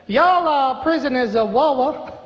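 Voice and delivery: Southern drawl. Acted. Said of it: "Bad ass-, accents".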